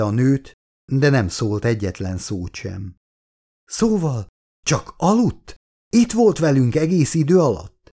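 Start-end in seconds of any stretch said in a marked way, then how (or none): 3.6-7.9 strained, groaning words pushed out high; groaned out. A narrator's reading. Wounded doctor groans her question at the old man, strained and high. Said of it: "nyögte ki Shaw doktor".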